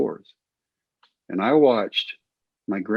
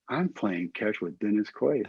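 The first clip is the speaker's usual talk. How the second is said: hushed inner thought; 8 dB quieter than usual. Retold or imitated. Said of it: "And I'm like".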